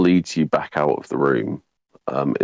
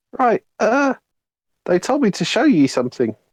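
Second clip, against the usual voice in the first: tiny creature voice, pitched much higher. Voicing a quasit that skitters over to a character, in a small quasit creature voice. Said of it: "the quasit kind of skitters over to you ... It's just kind of like".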